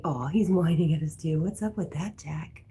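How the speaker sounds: loud, cooing scold to the dog; loud fond scolding. Real, not acted. Owner answering her whining dog, loud and fond.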